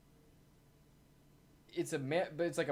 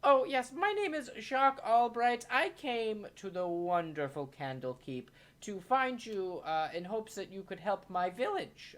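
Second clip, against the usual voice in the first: higher, eager earnest opening; eager Jacques; 4 semitones higher than usual. Acted. Jacques introducing himself to the wizard, eager and lightly higher. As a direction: introduce yourself keenly. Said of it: "Jacques introducing himself".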